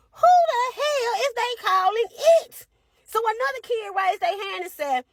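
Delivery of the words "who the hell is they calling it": high, louder disbelief to yourself; offended by being called it; muttered outrage, but loud; indignant inner voice. Retold or imitated. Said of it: "I'm saying to myself".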